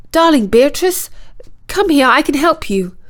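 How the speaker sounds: high coaxing call; soft call. A narrator's reading. Prince coaxing hidden Beatrice at the pond, calling softly. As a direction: coax her out with an offer of help. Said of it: "called out softly".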